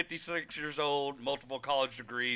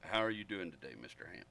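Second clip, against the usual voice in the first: work voice; 9 semitones lower, 12 dB quieter than usual. Pretend. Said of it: "That's how you use my work voice".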